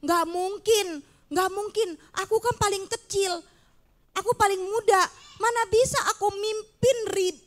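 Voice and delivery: put-on timid boy pleading with God, then trailing off; insecure Gideon. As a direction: plead that you're too young, voice dropping. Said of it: "dia bilang begitu".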